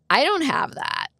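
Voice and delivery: high-pitched mild protest; retold dismay. Customer tells mechanic she can't pay, high-pitched dismay. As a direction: pitch it up, helplessly retelling.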